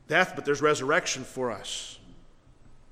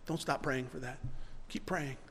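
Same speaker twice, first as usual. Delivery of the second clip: softer, lovingly chiding question; a loving father gently asking; the Lord gently corrects a believer, soft and loving; gentle correction; 8 dB quieter than usual. Retold or imitated. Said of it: "so lovingly and gently corrects us".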